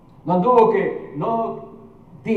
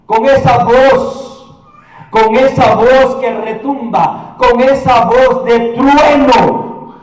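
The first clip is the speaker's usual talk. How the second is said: slow, swelling emphatic phrases; drawn-out sermon crescendo; thundering preaching; 3 semitones higher, 5 dB louder, slower than usual. Acted. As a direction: make each repetition resound.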